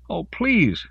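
high, drawn plea; wailing. A narrator's reading. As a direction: wail it imploringly. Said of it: "Denise wailed".

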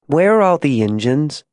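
lightly voiced small girl asking a question; innocent, puzzled child; curious little girl.

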